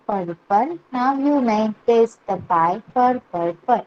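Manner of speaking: slow, measured nursery-rhyme reading; poem recitation. Acted. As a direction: recite it phrase by phrase for young pupils. Reads the poem aloud to class. (मुलांसाठी सावकाश कविता वाचन)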